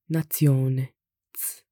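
"nazione" with the Z as ts, then a bare "ts"; TS sound. Shown as a demonstration. Teacher demonstrates Z before I, TS sound. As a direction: say natsione, then isolate the hissed ts. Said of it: "it also has a ts sound".

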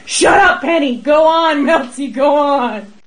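mock group shout. Guys egging her on.

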